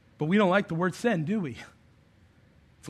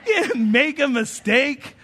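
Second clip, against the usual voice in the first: slow, laughing no; half-laughing, stretched-out correction; laughing retort; 4 semitones higher, slower than usual. Retold or imitated. Dad laughing as he corrects his son. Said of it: "I was like".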